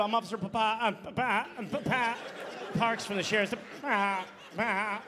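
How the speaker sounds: a lightly voiced stutter on Papa; stuttering cop. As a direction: stammer through the name. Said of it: "a cop with a stutter".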